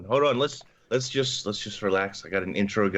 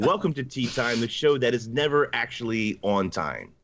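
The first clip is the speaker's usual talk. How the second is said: cheery radio show sign-on; local radio host voice. Acted. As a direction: announce it like a small-town DJ. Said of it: "You also sound like a local radio host".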